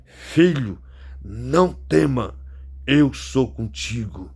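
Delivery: slow, drawn-out, solemn reassurance; God's reassuring words. Retold or imitated. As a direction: speak slowly, as God comforting a son. Voicing God's comforting words to him. (fala de Deus, lenta e solene)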